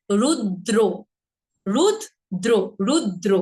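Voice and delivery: রুদ্র split as "rud-dro"; দ্বিগুণ দ. Shown as a demonstration. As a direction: double the d in রুদ্র. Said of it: "same ভাবে". ("রুদ্র" বলো রুদ্-দ্র)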